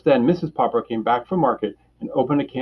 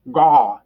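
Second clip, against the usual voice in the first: penguin gaw; 2 semitones higher, 7 dB louder than usual. A narrator's reading. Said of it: "opening his red beak wide as if he wanted to laugh".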